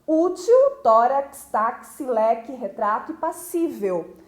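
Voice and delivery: second-last syllable punched in each word, "útil" through "passível"; stress on penultimate syllable. Shown as a demonstration. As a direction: lean on the next-to-last syllable in "útil", "tórax", "táxi", "leque", "retrato", "passível". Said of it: "é a penúltima sílaba da palavra".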